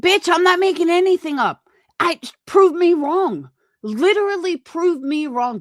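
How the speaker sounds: loud, high angry challenge. Real, not acted. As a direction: yell the challenge. Heated argument, challenging Brittany.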